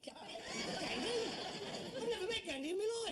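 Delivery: high-pitched comic outcry, then a rushed protest; indignant disbelief. Acted. Son hearing a spirit spoke of him, outraged disbelief. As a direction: shriek the name, then gabble the denial.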